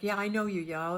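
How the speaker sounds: knowing drawl. Retold or imitated. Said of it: "It was almost like".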